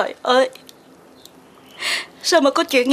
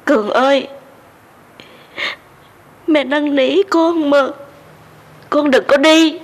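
tearful begging; slower than usual. Acted. Mother begging her son Cường not to leave, tearful and slow. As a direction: beg him to stay, voice near breaking. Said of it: "Mẹ đừng khóc nữa".

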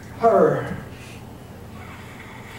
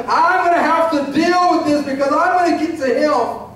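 higher-pitched, resolute seeker; determined declaration; 5 semitones higher than usual. Acted. Preacher voices determined seeker.

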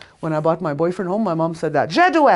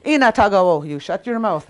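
louder, joking shut-up order; fake-scold, clearly in fun; mock telling off; 4 semitones higher, 6 dB louder than usual. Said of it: "I was kidding".

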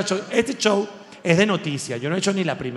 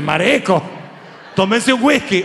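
mock Caribbean call-out; 2 semitones higher than usual. Joking to depressed Argentines, a mock Caribbean shout. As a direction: urge them to drink, half-joking. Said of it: "Tú dices".

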